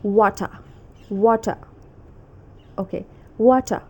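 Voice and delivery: British "water" ending in uh, no r; attempted British accent, "water" as wo-tuh. Shown as a demonstration. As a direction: say "water" British-style, dropping the final r. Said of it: "So in British accent, it's".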